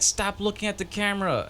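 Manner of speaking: high mock scold; scolding director. Director scolding the extra, mock annoyed. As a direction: tell him off like an annoyed director.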